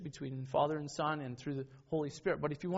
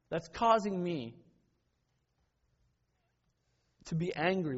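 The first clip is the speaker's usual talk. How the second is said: self-questioning inner voice; 5 semitones higher, 5 dB louder than usual. Retold or imitated. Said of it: "it's more of".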